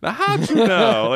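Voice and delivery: high-pitched, badly faked Southern accent; playful stab at a Southern twang; attempted Southern accent. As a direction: imitate mother's Southern accent, half-failing. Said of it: "I can't even do the accent".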